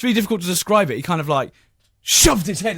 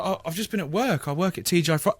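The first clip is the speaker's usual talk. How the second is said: softer, innocent explanation; meek young driver; 6 dB quieter than usual. Retold or imitated. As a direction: explain quietly, about to be cut off. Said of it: "And I was like".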